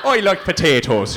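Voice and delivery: sing-song Northern Irish lilt; mock Irish mum, sing-song; lightly done Northern Irish accent; Northern Irish mum impression. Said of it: "Irish accents are all kind of sing-song".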